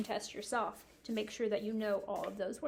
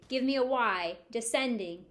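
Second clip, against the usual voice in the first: teacher call; 3 dB louder than usual. Shown as a demonstration. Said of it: "you repeat".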